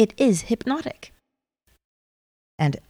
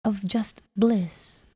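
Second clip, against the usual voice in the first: guided meditation. Acted. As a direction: ease the listener into calm.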